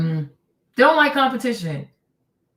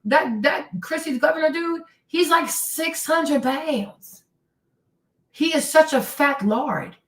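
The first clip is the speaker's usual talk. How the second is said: higher, slow mocking dig; talking trash about the governor, higher and slower; mocking jab; 6 semitones higher, slower than usual. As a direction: drag it out to ridicule the governor. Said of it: "I'm like".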